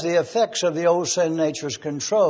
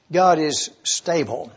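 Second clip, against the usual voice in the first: slower, each word set apart for note-taking; measured dictation pace; 3 semitones lower than usual. Shown as a demonstration. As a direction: say it slowly so they can write it down. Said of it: "I would enjoy knowing that you were writing these words down".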